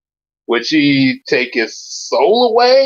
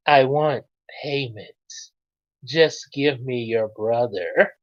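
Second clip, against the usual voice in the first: sly villain; 5 semitones lower, 3 dB quieter, slower than usual. Acted. Villain demands payment.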